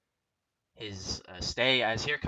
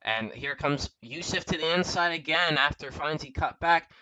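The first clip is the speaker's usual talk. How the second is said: excited commentary; 4 semitones higher, 9 dB louder than usual. Real, not acted. Calling a move on the inside.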